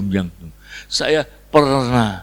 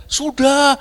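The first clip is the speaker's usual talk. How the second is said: high-pitched shouted answer; crowd shout; 12 semitones higher than usual. Acted. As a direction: call it out as half the crowd. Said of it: "Satu teriak". (teriakan separuh jemaat, nada tinggi)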